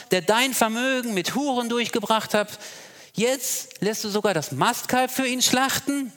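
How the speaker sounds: put-on older brother's bitter outburst at his father; bitter reproach. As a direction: let the resentment build to an outcry. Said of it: "entgegnete ihm bitter".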